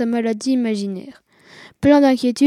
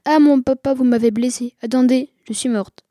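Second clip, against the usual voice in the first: a half-hearted mock cry of pain; hammed-up little wail; mock stage cry; 4 dB louder than usual. Girl pretending to be hurt by the whip, mock cry. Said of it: "je crie".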